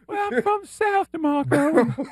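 a hint of a genteel Southern man; high-pitched southern gentleman. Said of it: "with the high-pitched voice".

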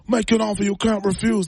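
a hint of the Godfather; understated mafia-boss line; Godfather impression. Showing off his Godfather to co-host, understated mob voice. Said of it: "That's my godfather".

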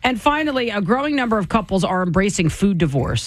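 smooth radio news delivery; evenly paced headline read. Acted. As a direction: read the closing story like an anchor. Reads a news item.

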